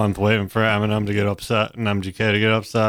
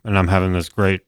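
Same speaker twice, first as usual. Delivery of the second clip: talking through a mouthful; words round a bite of food; mouth full; 3 semitones lower than usual. Real, not acted. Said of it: "talking with my mouth full".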